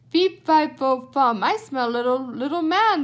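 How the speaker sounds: put-on a giant roars as he smells a boy; giant's roar. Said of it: "the voice roared".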